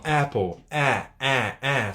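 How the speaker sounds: APPLE with an open, throaty first vowel; throaty English vowel. Shown as a demonstration. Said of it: "um som mais de garganta". ("apple" com o som de "é" aberto, de garganta)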